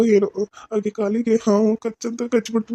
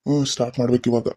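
much lower put-on male doctor voice; man's voice; 10 semitones lower than usual. Disguised woman posing as the doctor speaks in a much lower man's voice. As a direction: drop the voice low to pass as the male doctor. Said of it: "ಅವ್ನ ಗತಿ ನಾನು ಮಾತಾಡ್ಬೇಕು".

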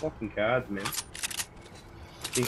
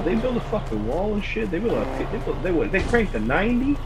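worked-up, high and loud gamer rant; high-pitched, indignant outburst; outraged; 6 semitones higher, 7 dB louder than usual. Real, not acted. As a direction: rant in rising disbelief at being shot. Outraged gamer after being shot in game.

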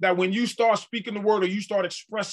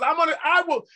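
voice of God; 7 semitones higher than usual. Acted. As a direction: proclaim as God himself. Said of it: "God says".

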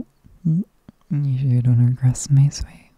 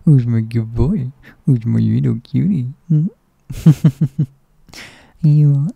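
put-on louder, doting baby talk; 4 dB louder than usual. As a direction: gush over him like a fond parent. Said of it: "when a baby talk".

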